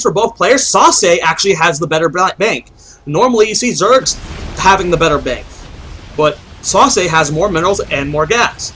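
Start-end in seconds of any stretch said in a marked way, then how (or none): 4.6-8.7 talking through hiccups; hiccuping between words. Real, not acted. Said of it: "I'm hiccuping".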